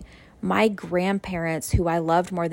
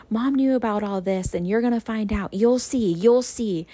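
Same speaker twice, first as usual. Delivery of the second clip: higher-pitched, mildly frantic mother imitation; panicking mom; 5 semitones higher than usual. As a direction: insist in a lightly mimicked panic. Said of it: "she was panicking".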